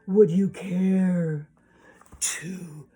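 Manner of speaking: slow, deliberate, drawn-out storybook villain; fox's invitation. Acted. Fox asking the hen to boil water, slow deliberate invitation. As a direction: draw out the polite request word by word.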